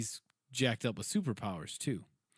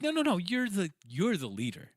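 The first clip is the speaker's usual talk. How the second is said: mock Thor; 7 semitones higher than usual. Fat Thor declining the leadership.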